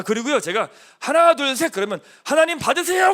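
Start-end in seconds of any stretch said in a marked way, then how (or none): 1.0-1.7 rally the room with a loud count; loud countdown. Real, not acted. Pastor leading the congregation in a loud count. 2.2-3.1 high, loud cheerful call; excited demo. Shown as a demonstration. Pastor showing the congregation what to shout while throwing. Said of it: "그러고 던지는 거예요".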